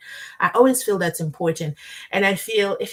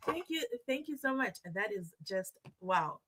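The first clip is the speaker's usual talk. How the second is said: touched; 12 dB quieter than usual. Real, not acted. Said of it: "so emotional right now".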